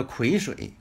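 癸 misread as "kuí", like 葵. Shown as a demonstration. Teacher quoting how people misread the character, misreading "kuí". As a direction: say 癸水 wrongly as "kuí shuǐ". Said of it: "不念癸啊".

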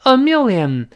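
gushing mock gratitude; exaggerated thanks. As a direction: overdo the thanks, stretching each word. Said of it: "甚至夸张一点说".

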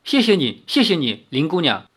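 sincere, mildly moved thanks; heartfelt gratitude. Acted. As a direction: thank them with surprise and feeling. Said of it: "真心诚意地说".

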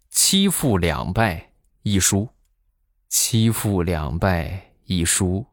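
imitated boxer, slow measured delivery; slow, deliberate. Boxer friend reporting his record to the speaker, slow and deliberate. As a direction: spell it out slowly, phrase by phrase.

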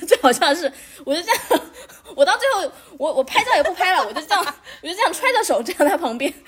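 giggling at her own awkward memory; laughing while talking. Real, not acted. Recalling her embarrassment, laughing. (边笑边回忆尴尬场面)

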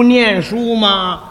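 drawn-out explaining. Shown as a demonstration.

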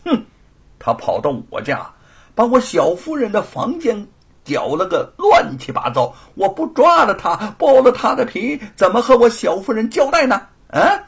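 loud, high, furious rich bully; angry villain. Acted. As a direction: bark out the threat like a bullying lord. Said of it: "子，说". (恶霸老爷，高声怒斥)

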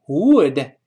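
"would" with a short, lax vowel; correct "would". Shown as a demonstration. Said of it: "同样不要读would".

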